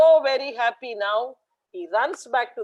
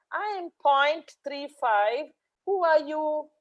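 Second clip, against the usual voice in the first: put-on little girl's voice; 5 semitones higher, slower than usual. New girl introduces herself.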